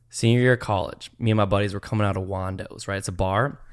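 put-on country accent. Storyteller stuck in the accent to friends, country accent. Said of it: "tell it in this accent".

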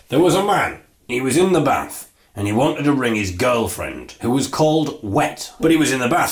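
joke telling. Shown as a demonstration. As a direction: tell it like a five-year-old's bath joke. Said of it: "here's my joke".

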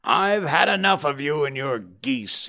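mild acted shout. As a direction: act out an irritated salesman's yell, held back. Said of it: "he shouted".

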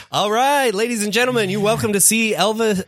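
announcer voice. Acted. Improv concert intro announcer.

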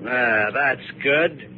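high, slow, sneering sweetness; mocking the refugees with fake gentleness; mock kindness. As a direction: coo at them like a con man.

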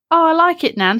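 put-on high childish protest; defensive child pleading to nan; whiny child. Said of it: "I was like".

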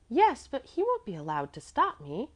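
put-on high, mildly scornful child; a little scornful. A narrator's reading. Defiant little girl to doubting woman, high light scorn. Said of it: "she said a little scornfully".

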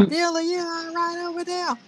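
high-pitched redneck calling out; redneck white guy. Retold or imitated. Redneck husband calls across to Bula, high mock-redneck voice. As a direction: imitate a redneck checking on someone, voice way up. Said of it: "like he's some redneck white guy".

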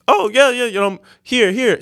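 high, eager coaxing; imitated eager girl. Girl urging customer to the bar, high and eager. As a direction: coax in a high imitated girl's voice.

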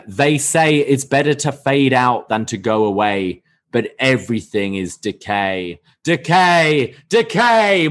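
rising, building creepy chant of decay; wild unhinged ranting. Retold or imitated. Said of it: "Crazy Steve continues by saying".

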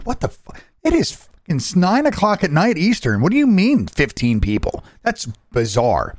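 high disbelieving protest; retold incredulity. Caller learns he is fifteenth at night, incredulous protest. Retells reaction to long support queue.

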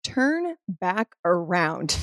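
slow, calm command from God; lightly voiced God, slow and even; a slow inner voice telling her to turn back. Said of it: "and I hear God".

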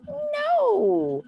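very high, long-held mock "no"; put-on little-kid protest; defiant toddler. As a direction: squeal a stretched refusal like a toddler. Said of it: "they'll go".

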